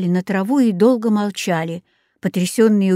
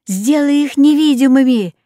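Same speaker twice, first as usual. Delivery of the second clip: louder, higher urgent call; shouted order; 5 semitones higher, 5 dB louder than usual. A narrator's reading. Rex orders Jaco to hide the children, urgent shout. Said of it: "крикнул Рекс".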